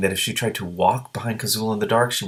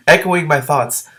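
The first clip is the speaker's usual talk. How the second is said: laughing; 8 semitones higher, 8 dB louder, slower than usual. Real, not acted. Reader laughs mid-quote.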